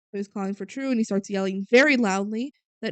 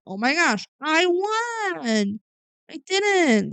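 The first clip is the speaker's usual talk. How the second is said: mock excited squeal; 7 semitones higher, much slower than usual. Tru reading the contest letter.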